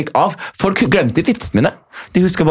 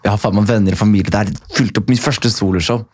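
ordinary talk

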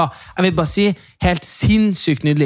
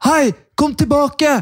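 much higher, slow imitated yell; retold shout; 13 semitones higher, 3 dB louder, slower than usual. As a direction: call out like teenagers from outside the fence. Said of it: "roper sånn". (imitert rop)

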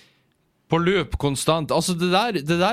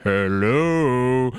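a louder, eerie hello from below; imitating eerie speaker; 3 dB louder than usual. Imitating the loudspeaker booming at him. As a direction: mimic the speaker under the toilet. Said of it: "vibrerte opp mot meg sånn her".

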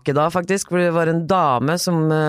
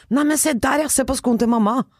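cheerful distraction; 7 semitones higher than usual. Retold or imitated. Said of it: "sier jeg".

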